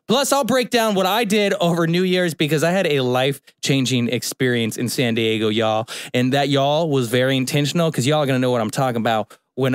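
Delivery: light put-on Southern twang; half-hearted Southern y'all talk; attempted Southern accent. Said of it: "I was trying to do a Southern accent".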